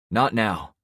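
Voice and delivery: short, sharp snap; snapping. Acted. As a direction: bite the words off. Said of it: "I snapped back".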